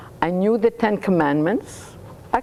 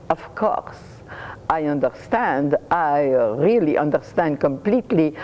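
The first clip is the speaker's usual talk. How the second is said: sly; 2 semitones higher than usual. Acted. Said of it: "said rather slyly".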